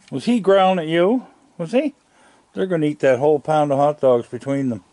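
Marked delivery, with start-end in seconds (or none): 0.1-1.9 higher, playful coo to the animal; pet talk. Real, not acted.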